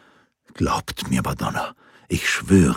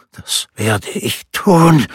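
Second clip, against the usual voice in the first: slow, rasping promise, a bit higher; raspy with lust; 7 semitones higher, 4 dB louder, much slower than usual. A narrator's reading. Rinaldo promising Laura murder, slow rasping voice. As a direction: rasp it out, heavy with desire. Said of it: "röchelte er mit vor Verlangen rauer Stimme".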